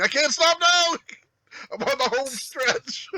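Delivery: strained high frantic yell; frantic excitement. Pretend. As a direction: push through it in a frenzy. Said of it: "you're just like".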